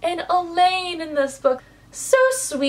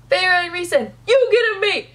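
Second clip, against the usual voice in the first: higher, louder, gleeful announcing; talk-show giveaway; 5 semitones higher, 3 dB louder than usual. Retold or imitated. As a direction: hand out mates like prizes. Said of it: "being like".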